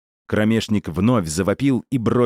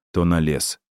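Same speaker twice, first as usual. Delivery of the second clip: plain reading voice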